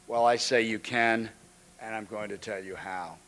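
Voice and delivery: lightly orated stump-speech rhythm, slowing on key phrases; campaign speech. Retold or imitated. Reading the President's speech card, a hint of podium oratory. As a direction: read the President's card aloud like a mild rally speech. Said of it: "the top card said".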